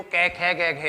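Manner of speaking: कै, खे, गै, घै said slowly and clearly from the throat; articulated from the throat. Shown as a demonstration. Teacher to students, sounding कै खे गै घै from the throat. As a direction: feel each sound in the throat. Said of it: "बोल के देखो".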